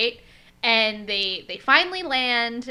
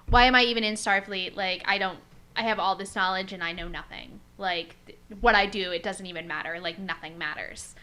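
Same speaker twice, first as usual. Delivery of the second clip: sinking into softer, lower dejection; 3 semitones lower, 4 dB quieter than usual. Retold or imitated. Officer doubting his place in Starfleet, acted down and out. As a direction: let an acted self-doubt trail downward, mildly defeated. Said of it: "he's feeling real down and out".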